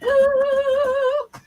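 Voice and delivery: excited woo. Real, not acted. Cheering at the sale's start.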